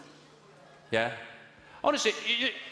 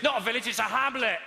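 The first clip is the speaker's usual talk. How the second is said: pedantic local; 7 semitones higher than usual. Retold or imitated. Pedantic villager correcting him.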